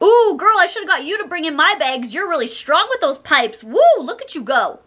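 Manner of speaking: a lightly voiced creepy catcaller, high "Ooh"; mimicking catcaller. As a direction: tease her like a leering guy in a parking lot. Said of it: "He shouts across the parking lot".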